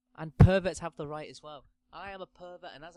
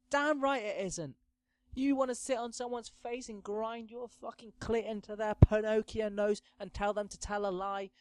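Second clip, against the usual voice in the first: gleeful fatherly cheer; 6 semitones higher than usual. Pretend. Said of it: "And I'll be like".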